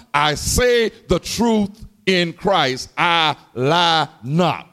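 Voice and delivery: slow, deliberate stress on "I lie not"; emphatic oath. Retold or imitated. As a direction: draw out "I lie not", weighting each word. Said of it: "an emphatic way of putting emphasis".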